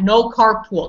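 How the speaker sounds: carpool said as car plus pool; stressed mistaken carpool; wrong-form demo. Shown as a demonstration. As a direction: carpool with a long oo, as the error to avoid. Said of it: "There's no car, there's no pool".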